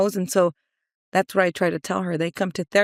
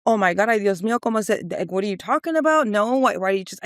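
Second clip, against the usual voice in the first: imitating a defensive mom; mildly indignant retold protest. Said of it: "And she got defensive".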